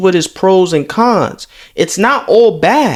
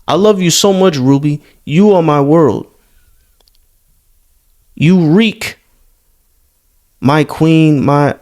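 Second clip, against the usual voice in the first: lower, mock-pleading fan voice reading the texts; mocking the desperate fan; 3 semitones lower than usual. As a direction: read the needy messages in a put-on lower whine. Keeps reading the fan's messages.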